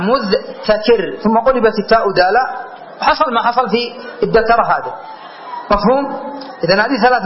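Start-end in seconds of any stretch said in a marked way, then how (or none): 0.0-1.2 "مذتكر" very drawn out, mudh-takir; underlying form. Shown as a demonstration. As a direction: show the t after dh in "مذتكر". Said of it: "هذه تاء الافتعال".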